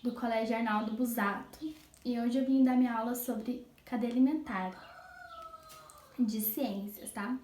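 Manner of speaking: hoarse sore-throat voice; speaking through an inflamed throat; swollen tonsils. Real, not acted. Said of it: "estou com a minha garganta inflamada". (voz rouca de garganta inflamada)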